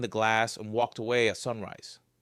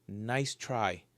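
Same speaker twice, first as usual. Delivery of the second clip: quiet whisper; 2 semitones lower, 7 dB quieter than usual. Acted. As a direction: hush it under your breath. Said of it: "I whispered".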